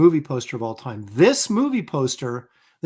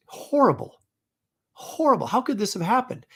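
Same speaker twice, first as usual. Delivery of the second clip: disgusted; 7 semitones higher than usual. Real, not acted. Disgust at the duck costume.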